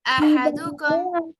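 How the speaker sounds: loud recitation. Shown as a demonstration. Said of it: "Repeat after me".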